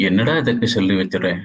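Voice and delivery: a light, fast comic imitation of a witty film comedian; lightly voiced Tamil comedian, very fast; imitating Vadivelu. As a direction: rattle the lines off quickly for a laugh, only lightly voiced. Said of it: "I am just imitating".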